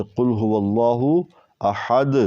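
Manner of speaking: slow "احد" with a strong bounce on the final د; "احد" ending in an echoing د; strong stop qalqala. Shown as a demonstration. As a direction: recite "قل هو اللہ احد", bouncing the د hard. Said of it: "قلقلہ جنبش جو ہے وہ زیادہ ہوتا ہے".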